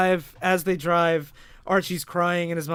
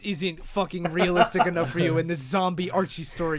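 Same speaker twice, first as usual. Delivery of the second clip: louder, sneering mock apology that turns into an insult; sarcastic mock rant; 4 dB louder than usual. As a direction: tear into Daryl with fake sorrow.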